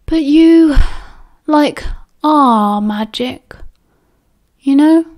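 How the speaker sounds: put-on woozy stop-start drunk voice, swinging high; drunken rambling. A narrator's reading. Drunk Sirius telling Remus he is magic, woozy rambling. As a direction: ramble slowly and drunkenly, stretching the words.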